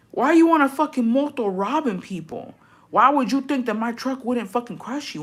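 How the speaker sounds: lecturing the moto robbers; mock road rage. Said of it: "And I'm like".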